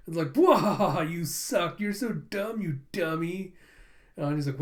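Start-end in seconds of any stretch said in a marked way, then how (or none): 0.3-3.5 loud opening wail, then teasing jeer; mocking. Boy taunts girl who pulled the old maid, mocking. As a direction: playground taunt, acted out. Retold player mocks the loser.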